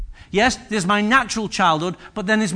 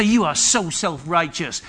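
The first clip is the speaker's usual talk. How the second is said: lower, slow mock telling-off; retold rebuke; 4 semitones lower, 4 dB quieter than usual. Preacher imagining himself rebuking a churchgoer, low slow reproach. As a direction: re-enact a measured reproach.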